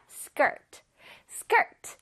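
"skirt" with every sound distinct; 전체를 뚜렷하게. Shown as a demonstration. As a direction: articulate the whole of "skirt" clearly. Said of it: "발음 전체를 뚜렷하게 발음해줄". ("skirt" 발음 전체를 뚜렷하게)

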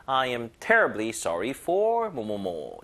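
terribly stressed, slow drill. Shown as a demonstration. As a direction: lean on "terribly" in "I am terribly sorry for". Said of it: "요거 힘을 여기다 주시고". (terribly에 힘을 준 천천히 읽기)

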